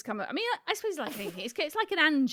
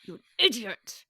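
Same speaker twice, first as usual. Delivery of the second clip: said through clenched teeth; through gritted teeth. Shown as a demonstration. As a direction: grit your teeth on it. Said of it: "Also great for gritted teeth".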